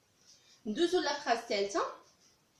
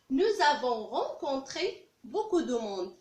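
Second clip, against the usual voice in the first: slow, carefully spaced French; slow clear model sentence; much slower than usual. Shown as a demonstration. Teacher reading the past sentence aloud, slow and clear. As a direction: say each word slowly for learners. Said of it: "teacher models French sentence".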